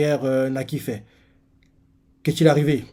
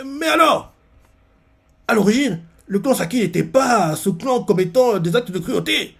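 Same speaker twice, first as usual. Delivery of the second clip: Ten voiced; 9 semitones higher, 4 dB louder than usual. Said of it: "on montre Ten qui fait".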